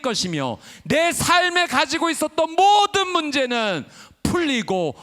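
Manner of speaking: high, loud, ringing declaration; loud, high sermon proclamation building to a climax; full-force preaching. Acted. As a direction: proclaim each promise like a rallying cry.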